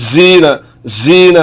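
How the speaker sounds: जीना said as buzzing 'zeena'; wrong whistling z. Shown as a demonstration. Teacher repeating the mistake for learners, whistling z. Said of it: "अब ये जा पढ़ा जा रहा है".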